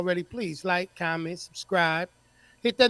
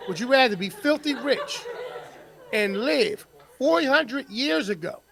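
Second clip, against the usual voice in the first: laughing; 4 semitones higher, slower than usual. Shown as a demonstration. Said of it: "repeats question plainly".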